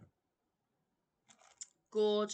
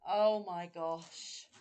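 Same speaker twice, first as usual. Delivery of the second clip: slow, louder oh my gosh; louder awe; 5 dB louder, slower than usual. Real, not acted. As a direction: let the joy burst out. Moved by gifts.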